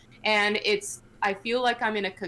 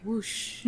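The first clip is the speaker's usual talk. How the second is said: mouth sound effects; 7 dB quieter than usual. Shown as a demonstration. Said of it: "I like to make sound effects with my mouth".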